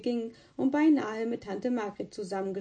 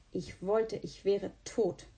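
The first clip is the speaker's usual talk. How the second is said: gloomy mumble; slower than usual. A narrator's reading. Sick boy turned to the wall, slow gloomy mutter. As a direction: let it drag out of him. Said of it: "brummte er".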